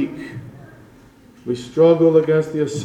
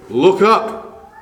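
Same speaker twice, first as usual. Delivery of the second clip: higher and louder ringing command; commanding call; 6 semitones higher, 5 dB louder than usual. Acted. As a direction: call it out like a divine order. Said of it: "the Lord gives another command".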